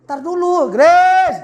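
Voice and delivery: loud, high call across the house; mother calling. Retold or imitated. Mother calls her daughter to help, loud high call. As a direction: shout the name up high like a mum. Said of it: "Coba Mama yang panggil".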